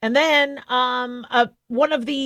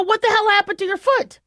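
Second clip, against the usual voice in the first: high, alarmed question; alarmed to the dog; 9 semitones higher than usual. Retold or imitated. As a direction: ask it in shock, pitched high. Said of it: "I go".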